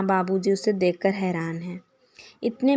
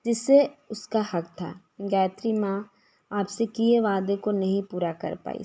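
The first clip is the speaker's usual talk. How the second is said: tearful despair. Acted. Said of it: "अपने आप को रोक नहीं पाई".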